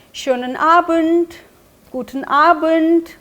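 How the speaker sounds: very slow, each syllable laid out for learners; slow teaching model. Shown as a demonstration. Teacher modelling a weekend goodbye for learners, slowly. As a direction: spell the German out slowly so students can copy. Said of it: "तो वो बोल सकते हैं".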